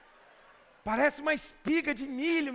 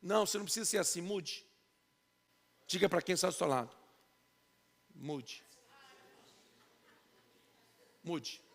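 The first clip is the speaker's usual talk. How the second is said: lower, much softer fast murmur; soft, hushed urging; 7 semitones lower, 8 dB quieter than usual. Real, not acted. Pastor to the congregation, soft hushed urging. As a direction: drop to an intimate hush. Pastor tells church to say mude.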